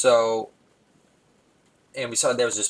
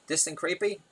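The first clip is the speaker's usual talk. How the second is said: imitating an indignant child; mildly cross, raised-pitch questioning; angry tone; 7 semitones higher than usual. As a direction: scold like an affronted small boy. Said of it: "in a real angry tone".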